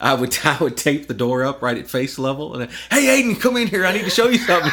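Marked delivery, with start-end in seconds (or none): 2.9-4.7 put-on high, loud holler to a kid; calling out. Dad luring son into prank, calling out high. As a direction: call him in from another room.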